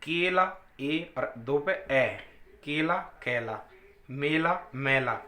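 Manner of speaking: केला कैला, मेला मैला said slowly; slow vowel contrast. Shown as a demonstration. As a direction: pair the words slowly for learners. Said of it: "ए बाहर की तरफ जाती है और ए अंदर की तरफ". (केला कैला, मेला मैला धीरे-धीरे)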